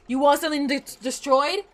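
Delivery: mock French accent. Streamer voices his game unit, hammed-up French accent. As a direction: play a gung-ho Frenchman ready to wreck things. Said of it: "Very French".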